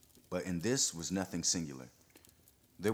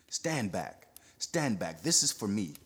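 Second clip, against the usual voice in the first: cried out; 3 semitones higher, 3 dB louder than usual. Acted. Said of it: "Perronet cried".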